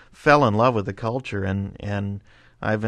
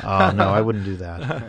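laughing; 3 dB louder than usual. Real, not acted. Joke about being a robber.

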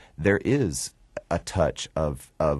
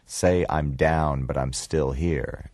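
slow demo line; slower than usual. Shown as a demonstration. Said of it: "try to say this".

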